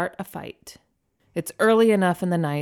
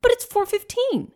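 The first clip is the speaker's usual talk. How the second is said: Ken voice; 4 dB louder than usual. Acted. Narrator voicing Ken.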